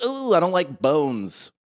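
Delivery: drawn-out queasy "Ooh, I don't like bones"; mildly voiced grossed-out nurse; nurse, squeamish. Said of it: "the nurse literally goes".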